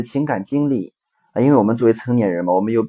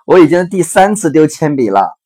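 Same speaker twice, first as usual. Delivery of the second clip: upset daughter; 5 semitones higher, 8 dB louder than usual. Retold or imitated. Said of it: "女儿说".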